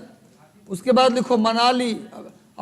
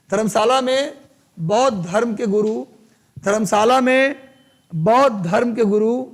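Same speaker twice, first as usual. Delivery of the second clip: phrase-by-phrase dictation with pauses; teacher spacing out words for note-takers; classroom dictation. Real, not acted. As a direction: dictate in chunks, lifting at the phrase ends.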